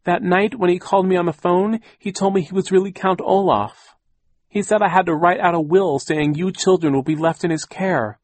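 high, loud, plaintive excuse; whining. A narrator's reading. Frightened aunt explaining the forced will, whining. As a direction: keep the pitch up and plead your case. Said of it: "Aunt Josephine whined".

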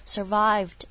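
"Survived" said carefully with its final d; "Survived" standing alone before a pause; final d sounded. Shown as a demonstration. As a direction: finish "Survived" on an audible, short d. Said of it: "把它做出来".

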